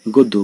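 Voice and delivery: গদ্য as "god-do"; closed o vowel. Shown as a demonstration. Teacher gives an example, গদ্য with closed o. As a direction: round the first vowel of গদ্য to o. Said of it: "অ এর উচ্চারণ সাধারণত ও এর মতো হয়".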